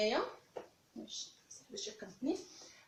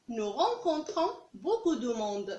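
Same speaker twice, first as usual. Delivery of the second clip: slow model sentence; much slower than usual. Shown as a demonstration. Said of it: "teacher models French sentence".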